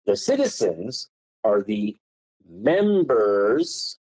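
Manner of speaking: leaning hard on citizens and members; slow, punched words to make them stick; emphatic stress. Real, not acted. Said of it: "Love Kirk's tone change in emphasizing words".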